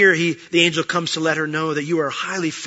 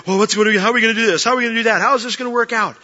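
higher, louder anxious fretting; mock worry; 6 semitones higher, 5 dB louder, much faster than usual. Preacher voicing the congregation's anxious thoughts, fretful and louder. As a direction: rattle off the worries in mock panic.

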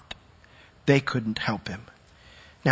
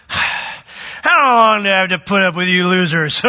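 slow, fed-up paraphrase; sigh, then drag it out like a fed-up teacher; mock exasperated Jesus; 2 semitones higher than usual. Preacher mock-paraphrasing Jesus as exasperated with the losers. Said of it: "And you're like".

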